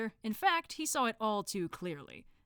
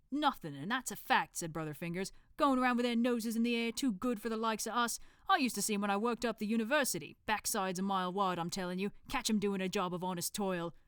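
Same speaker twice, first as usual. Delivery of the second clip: put-on Cockney accent; 3 semitones higher than usual. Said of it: "thick Cockney accent".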